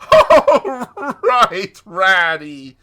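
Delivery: very high, loud merry outburst; bursting out merrily. A narrator's reading. Toad laughs off Rat's nudge, merry outburst. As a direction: burst out high, then come down. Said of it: "Then Toad burst out laughing".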